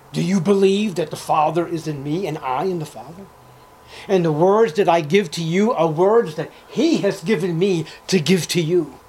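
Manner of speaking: emphatic scripture declamation; insistent pulpit delivery as Jesus; forceful preaching. Acted.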